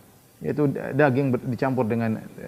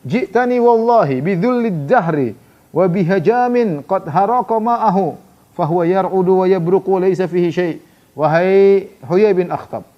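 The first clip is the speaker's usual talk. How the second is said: scornful retort; 4 semitones higher, 5 dB louder, slower than usual. Retold or imitated. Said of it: "dia mengatakan".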